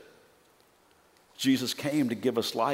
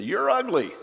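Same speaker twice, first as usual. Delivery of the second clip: high parrot voice, insulting; taunting parrot; 10 semitones higher, 4 dB louder than usual. Acted.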